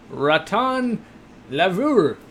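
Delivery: best attempt at a French accent; rough American stab at French pronunciation. Shown as a demonstration. Streamer reading out a viewer's French term, amateur French accent. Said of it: "That's my best French accent".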